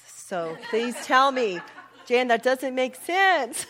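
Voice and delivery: laughing through a loud plea. Real, not acted.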